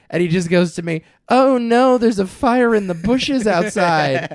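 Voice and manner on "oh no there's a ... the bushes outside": slow, mocking sarcastic alarm. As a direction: ham up fake worry, slowly. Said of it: "just sarcastic ass text message".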